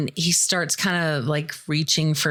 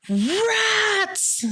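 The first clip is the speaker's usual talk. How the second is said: startled squeal. Retold or imitated. Sudden rats in the pipe.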